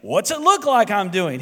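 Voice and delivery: a touch of sarcasm, lightly voiced; sarcastic reply. Bored bricklayer answering a passerby, mildly sarcastic. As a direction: toss the question back like it's obvious. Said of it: "he replied sarcastically".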